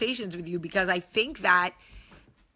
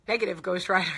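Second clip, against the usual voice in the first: changed voice; 2 semitones lower, much faster than usual. Acted. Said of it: "Yeah, I changed my voice".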